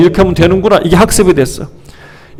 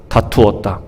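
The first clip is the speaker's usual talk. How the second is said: quiet echo; 7 semitones lower, 7 dB quieter than usual. Shown as a demonstration. Preacher repeats the verse word.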